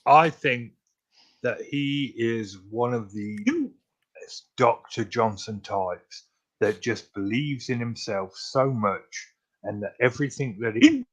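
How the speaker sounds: quiet, talking through hiccups. Real, not acted. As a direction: speak while hiccuping between words. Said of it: "the hiccuping is just completely detracting".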